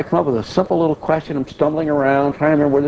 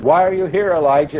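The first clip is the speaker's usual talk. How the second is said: booming, higher call of a preacher-God; powerful ministerial voice; 4 semitones higher than usual. Retold or imitated. God booming at the prophet in the cave, powerful voice. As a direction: proclaim it like a mighty voice from heaven. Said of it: "in a very powerful ministerial voice".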